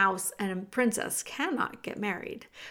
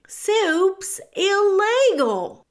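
odd character voice; 10 semitones higher, 9 dB louder, much slower than usual. Acted.

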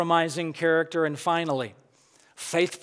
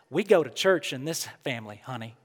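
put-on a mother's gentle Southern accent, voice lower and dropping away on honey; sweet Southern accent; 5 semitones lower, 4 dB quieter, faster than usual. Preacher imitating his mother's sweet Southern accent telling him the family goes to church. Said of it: "That's my mom's sweet Southern accent".

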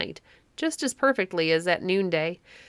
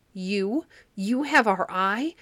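frightened scream; 5 semitones higher, slower than usual. A narrator's reading. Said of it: "screamed the three gray women".

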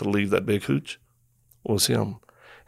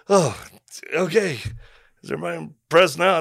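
sarcastic; 7 semitones higher than usual. Retold or imitated. Sarcastic retort to group.

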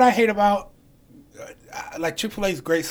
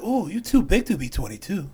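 mock Chinese accent. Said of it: "supposed to do the accent".

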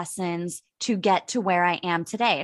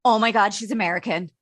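excited bar guy; 3 dB louder, faster than usual. Retold or imitated. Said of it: "the guy next to me just stopped and he went".

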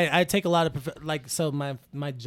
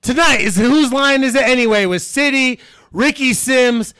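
louder, showy host introduction; TV host announcement; 3 semitones higher, 8 dB louder than usual. Pretend. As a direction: announce the guests like a game show host. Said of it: "sitcom host?".

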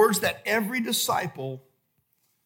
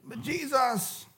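mock whiny complaint, softer and slow; 4 semitones higher, 9 dB quieter than usual. Disciple complaining to God, mock whiny. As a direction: whine at God like a sulky child, played lightly. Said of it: "we get real whiny".

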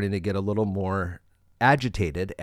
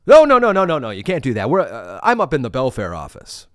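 loud panicked no; 6 dB louder, faster than usual. Retold or imitated. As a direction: blurt the nos in a panic. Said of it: "And he's like".

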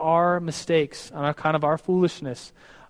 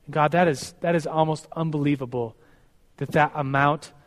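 slightly lowered, measured praying voice; earnest prayer. Real, not acted. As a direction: address God sincerely with falling phrase ends. Leads the closing prayer.

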